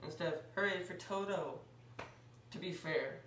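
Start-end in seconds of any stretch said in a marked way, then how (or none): 0.6-1.6 higher-pitched imitation hooray; mock cheer. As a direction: lift it like the cheer Toto wishes for. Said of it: "the Munchkins all cheered".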